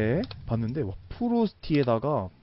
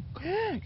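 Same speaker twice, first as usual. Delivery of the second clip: impressed gasp; 8 dB quieter than usual. Real, not acted. Impressed by dragon.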